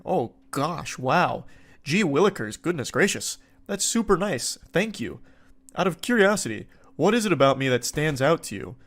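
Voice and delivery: flustered and flattered, swooning over the compliment; blushing anime character. Retold or imitated. Guy replying to her gushing texts, blushing anime voice. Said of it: "he's blushing here like an anime character".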